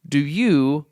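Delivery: slow, over-clear question to a foreigner; slow, pointed. Retold or imitated. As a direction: spell it out slowly with pointing. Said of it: "I'm doing the pointy thing".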